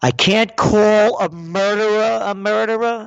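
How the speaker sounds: acted indignant outburst; indignant comeback. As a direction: throw it back in outraged disbelief. Imagined indignant comeback he didn't say.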